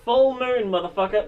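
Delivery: excited shout. Real, not acted. Triumphant game exclamation.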